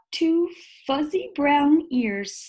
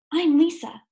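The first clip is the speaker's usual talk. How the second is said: higher, bright eager introduction; happy little girl; 6 semitones higher than usual. A narrator's reading. Lisa greeting the bear, eager and happy. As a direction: tell the bear your name gladly.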